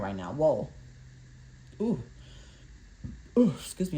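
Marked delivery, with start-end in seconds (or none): 1.8-2.0 burp. Real, not acted. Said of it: "I'm burping".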